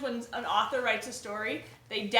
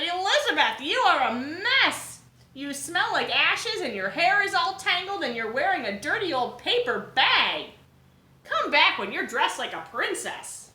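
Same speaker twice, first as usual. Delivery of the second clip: higher, louder scornful prince voice; snooty prince; 4 semitones higher, 5 dB louder than usual. Acted. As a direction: look down on her as a haughty prince. Snobby Prince Ronald scolds.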